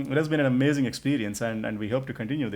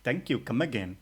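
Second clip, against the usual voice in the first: Apu impression. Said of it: "talk like Apu from Simpsons".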